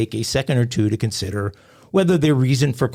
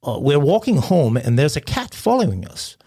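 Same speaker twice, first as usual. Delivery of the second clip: put-on a light British accent, rising worried; British caller; 4 semitones higher than usual. Caller telling dispatcher about a cat, light British accent. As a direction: play a flustered British caller.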